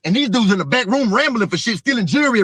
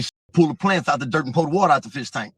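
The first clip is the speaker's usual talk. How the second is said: lower, calm retold instruction from partner; partner's coded order; 6 semitones lower than usual. Retelling his partner's code on the way in, low and calm. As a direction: relay the partner's code words low and steady. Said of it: "He say".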